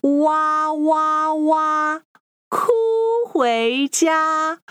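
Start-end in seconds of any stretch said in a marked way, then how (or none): 0.0-2.0 stylized "wah" crying, held level; pretend crying. Teacher acts the little piggy crying for learners, pretend wail. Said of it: "and cried all the way home".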